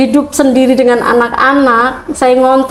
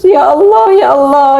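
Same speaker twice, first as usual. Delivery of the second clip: calling to God; 2 semitones higher than usual. Retold or imitated. Calling Allah again and again, pleading. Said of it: "Itu saya panggil Allah terus menerus".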